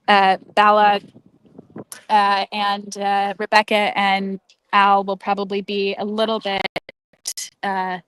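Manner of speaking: muffled, mic covered by hand; finger over the mic. Real, not acted. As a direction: voice dulled behind a covered mic. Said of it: "you're covering the mic".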